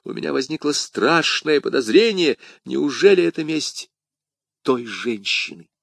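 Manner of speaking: high alarm that drops at the end; acted alarm, easing to a hush; alarmed cry. A narrator's reading. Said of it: "вскричал Д'Артаньян".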